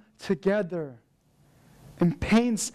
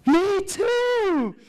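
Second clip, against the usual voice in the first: imitating his thrilled cry, much higher and louder; excited "me too"; 10 semitones higher, 5 dB louder than usual. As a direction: burst out like a delighted new friend. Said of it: "And he got so excited".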